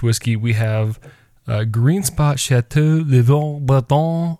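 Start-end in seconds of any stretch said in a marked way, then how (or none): 2.4-4.4 slow, hammed-up French accent on the name; mock French accent. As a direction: drag the name out in an over-the-top French accent. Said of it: "speaking in this outrageous French accent".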